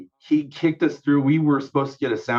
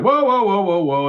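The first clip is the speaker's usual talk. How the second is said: high, sharp call to stop the band; retold stage call to stop the music; calling a halt; 7 semitones higher, 3 dB louder than usual. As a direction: cut everyone off mid-song. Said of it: "and everybody stops".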